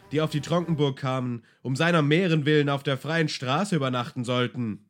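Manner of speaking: high, dismissive castellan; scornful castellan. Acted. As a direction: brush off the question with disdain. Castellan blames the runaway groom. (abschätziger Schlossvogt, herablassend)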